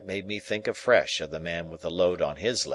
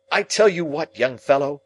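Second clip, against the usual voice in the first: much higher, louder warning; stern sister; 8 semitones higher, 8 dB louder than usual. Acted. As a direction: rise and lay down the law. Sister rises to scold.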